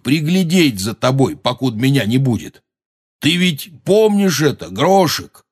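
high, slightly strained call upward. A narrator's reading. Hagrid explaining his plan to the giant overhead, calling out. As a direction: call up coaxingly to someone huge and inattentive. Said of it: "крикнул Хагрид".

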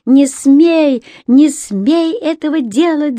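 high furious shout, not her own voice; frantic yell. Acted. Рони screams at her father to stop, high furious yell. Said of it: "заорала она не своим голосом".

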